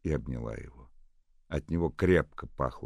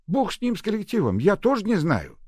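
much higher, louder retort; exasperated old nurse; 11 dB louder than usual. A narrator's reading. Old nurse waving off the collective, loud. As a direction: brush it off loudly.

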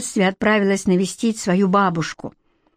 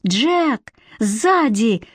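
shouting warning; 2 semitones higher, much slower than usual. Acted. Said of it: "закричала Златовласка".

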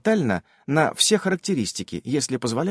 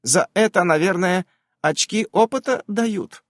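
dreamy; 5 semitones higher than usual. Acted. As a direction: drift off into a daydream. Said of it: "добавляет мечтательно".

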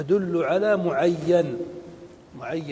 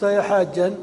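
louder mock call to every pilgrim; calling out to all; 3 semitones higher, 5 dB louder than usual. Shown as a demonstration. Teacher shows the wrong call to a thirsty pilgrim, louder. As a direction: call out to the whole crowd, a bit louder. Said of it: "لو قلت".

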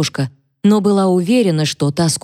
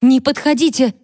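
high, tearful cry to keep away; a scared girl backing off; sobbing plea; 8 semitones higher than usual. A narrator's reading. Catherine, sobbing, tells Mary not to come near. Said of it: "всхлипнула она".

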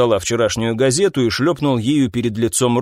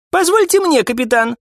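much higher female voice; high polite woman; 13 semitones higher, 3 dB louder than usual. Acted. Gloria asking the captain to speak, high and polite.

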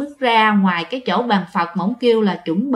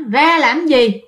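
mocking ghost; 5 semitones higher, much slower than usual. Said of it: "bà cười các bạn".

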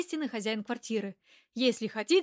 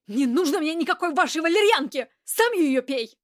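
snapping back, louder and higher; sudden outburst; 4 semitones higher, 7 dB louder than usual. A narrator's reading. Heroine suddenly explodes at the rude man, loud outburst. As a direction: blow up at him. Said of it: "неожиданно взорвалась я".

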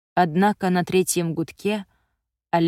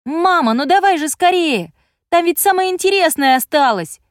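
put-on high, loud eager plea of a boy; hurrying child; 10 semitones higher, 7 dB louder than usual. A narrator's reading. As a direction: urge mum on, can't wait for the story. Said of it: "заторопил он".

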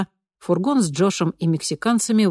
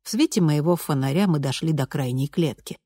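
ordinary delivery

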